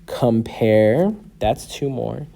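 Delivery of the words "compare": "Compare" as two distinct beats, rising on the second; separated syllables. Shown as a demonstration. Teacher marking two more syllables, separated syllables. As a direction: split Compare into com and pare, ending up. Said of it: "separate the syllables".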